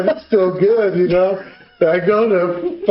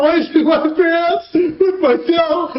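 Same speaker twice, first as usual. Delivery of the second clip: mock angry uncle; 11 semitones higher than usual. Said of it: "He's like".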